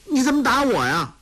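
high, quick startled protest; a boy just knocked down; indignant surprise. Acted. Boy knocked over protesting to Zhu Cong, high and shocked.

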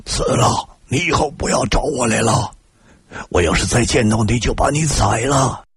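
high-pitched angry yell at moderate volume; furious shouting. A narrator's reading. Enemy driving off the man who grabbed him, furious shouting. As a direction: yell a threat to drive them away. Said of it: "冲我喊道".

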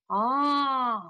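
drawn-out acted sob; mock crying moan; acted wail. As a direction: let out a long, pained "ah". Beaten man breaks down lamenting.

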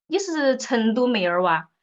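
lightly imitated Chongqing local's question; local Sichuan dialect. Chongqing local questioning a newcomer's speech, in Sichuan dialect. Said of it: "我走到重庆的时候，再说成都话的时候，别人就说".

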